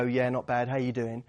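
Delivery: flat, low-energy reply. Shown as a demonstration. Echoing a low-energy greeting in a mild flat tone. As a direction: answer with no energy at all. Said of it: "you come in low energy and go".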